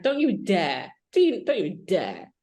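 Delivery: avvertimento indignato e rievocato, scandito con forza; monito indignato. Retold or imitated. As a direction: rifai un altolà a chi ti provoca. Retold argument with her editor.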